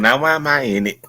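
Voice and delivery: laughing protest. Real, not acted. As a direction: laugh through the question, then burst out. Jerome caught, laughing.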